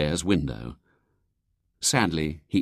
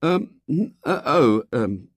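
put-on stalling, higher boyish hesitation; vague; 8 semitones higher, slower than usual. A narrator's reading. William dodges giving his address, vague. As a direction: fumble for an answer as a boy. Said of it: "said William vaguely".

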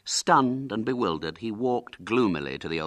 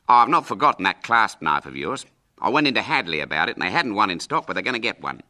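lightly voiced breezy uncle, quick; a hint of a hearty uncle; 6 dB louder, faster than usual. Uncle reassuring a boy about his promised knife, lightly breezy.

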